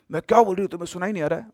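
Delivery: angry snap. Retold or imitated. Ghost woman in the lift snapping at the silent girl, angry. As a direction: snap at her like she's deaf. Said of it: "बहुत तेज गुस्से में बोली".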